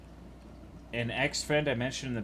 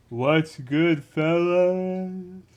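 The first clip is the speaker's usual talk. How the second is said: bro greeting; 6 semitones higher, 5 dB louder, much slower than usual. Pretend. Comic greeting in put-on voice.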